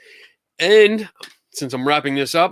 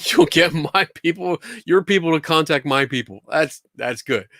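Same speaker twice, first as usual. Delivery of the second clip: put-on New York accent; 3 semitones higher than usual. Self-important host boasting about having people and secretaries, New York accent. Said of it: "I go into a New York accent".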